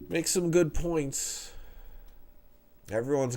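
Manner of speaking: blocked nose; talking with a stuffy nose; stuffed up nose. Real, not acted. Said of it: "I'm really stuffed up tonight".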